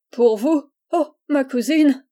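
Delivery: protestation ironique, plus haute et plus forte; ironie. A narrator's reading. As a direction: feindre de s'exclamer, avec ironie. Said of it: "Et Charles sourit ironiquement". (exclamation moqueuse et ironique)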